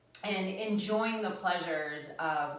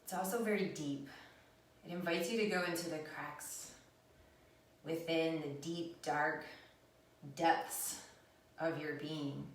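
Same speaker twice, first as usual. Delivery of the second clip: unhurried, hushed meditation guidance; guided meditation; 3 dB quieter than usual. Real, not acted. Teacher inviting viewers into their own depths, calm meditative guidance. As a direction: lead them inward, with long pauses between phrases.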